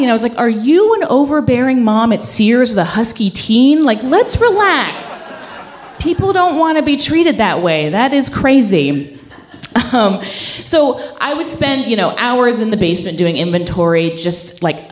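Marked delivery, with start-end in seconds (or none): 0.4-9.2 higher, laughing disbelief; incredulous laughing retort. Retold or imitated. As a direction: laugh off an absurd demand. Narrator's retort to the boss.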